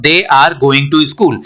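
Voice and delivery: "they are" as two whole words; full uncontracted form. Shown as a demonstration. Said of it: "आप बोलने के समय क्या करोगे". ("they are" अलग-अलग पूरा बोलें)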